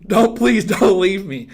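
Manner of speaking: loud, slow, drawn-out plea; high, half-joking desperate pleading; desperate begging. Real, not acted. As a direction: laughingly beg them not to go. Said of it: "God, I sound desperate".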